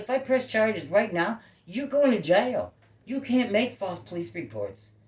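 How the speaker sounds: slow, loud, high threat of jail; angry warning. Retold or imitated. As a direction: spell out the threat, furious. Retold threatening neighbour with charges.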